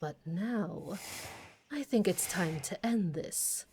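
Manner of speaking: lightly voiced bored aristocratic villain. Villain dialogue continues.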